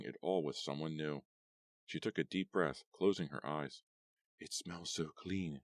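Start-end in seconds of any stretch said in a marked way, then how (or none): 4.4-5.6 slow, soft and content; a slow, soft sigh of pleasure at the night air; happy. Acted. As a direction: savor it, slowly and quietly. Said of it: "she said happily".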